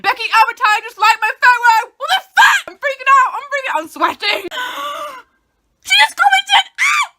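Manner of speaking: screaming with excitement; high, loud ecstatic shrieks; freaking out. Real, not acted. Celebrity liked her photo.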